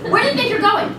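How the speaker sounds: high, loud mocking laugh in the question; sneering challenge. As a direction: catch her as she leaves, sneering. Mistress stops servant, sneering.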